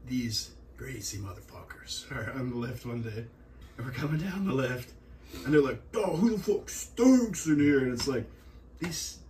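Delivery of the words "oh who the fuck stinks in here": high, loud, drawn-out mock outrage; retold disgusted complaint. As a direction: imitate a worker loudly griping about a stench. Retold coworkers griping about stink.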